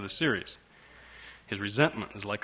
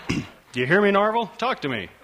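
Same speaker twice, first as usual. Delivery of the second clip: demanding father; 9 semitones higher, 4 dB louder than usual. Acted.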